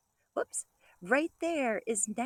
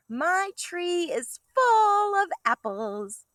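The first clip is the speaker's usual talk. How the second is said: slow, higher, louder storybook read; reading to children; 7 semitones higher, 9 dB louder, much slower than usual. Acted. Teacher reading slowly to kindergartners, high and loud. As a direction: stretch it out proudly for the class.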